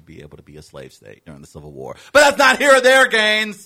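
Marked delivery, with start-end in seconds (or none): 2.1-3.7 brushing it off. Real, not acted. Brushing off his own tangent.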